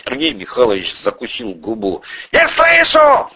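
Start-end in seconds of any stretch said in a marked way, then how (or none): 2.3-3.3 slow, high, loud yell; drawn-out, furious shout; beside himself. A narrator's reading. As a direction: demand an answer at the top of the voice. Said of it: "вышел из себя Порешайло".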